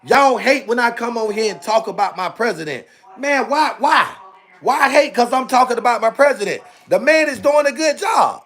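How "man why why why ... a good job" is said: higher, pleading shout of why; rising frustrated protest; exasperated outburst. Real, not acted. Defends president, rising anger.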